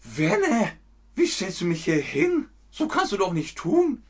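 teacher voicing north German dialect. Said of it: "das ist der norddeutsche Dialekt".

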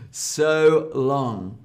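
dramatic. Shown as a demonstration. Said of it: "is quite dramatic".

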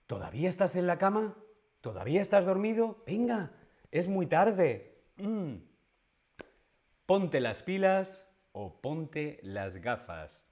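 nagging mother. Retold or imitated. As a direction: nag like a mom waking her kid. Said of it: "llega tu madre a la habitación y dice". (madre regañando)

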